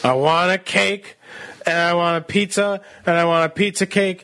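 high, slow whiny demands; imitating girlfriend. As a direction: whine like a spoiled girlfriend. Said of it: "you just did a perfect imitation of my girlfriend".

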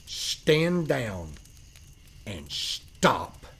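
measured indignation, key words leaned on; conviction and anger. Retold or imitated. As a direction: deliver a firm, understated reprimand with conviction. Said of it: "I said it with conviction and anger".

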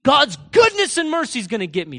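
high, loud, impassioned proclamation; David's confident declaration. Acted. David declaring God's goodness while being hunted, impassioned conviction. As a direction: preach it with total conviction, stretching key phrases. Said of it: "hear how he would talk".

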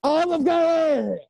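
drawn-out, exaggerated. Food place argument, drawn out.

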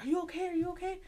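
high frantic calling through a door; frantic friend banging on the door; panicked. Retold or imitated.

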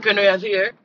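lightly imitated Jamaican accent. Stepfather asking at the neighbor's door, mild Jamaican accent. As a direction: ask with a touch of Jamaican accent. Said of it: "he had a Jamaican accent".

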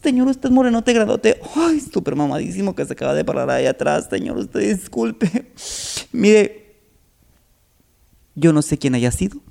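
a hint of a coy flirt; coy camp guy. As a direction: sweet-talk the big man. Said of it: "el chico sin violencia le dice".

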